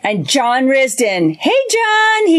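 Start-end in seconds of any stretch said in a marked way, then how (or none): 1.4-2.3 higher-pitched exclamatory greeting. Acted. Co-host reading John Risden's message, exclamatory. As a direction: read it out with an exclamation mark. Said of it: "Exclamation mark".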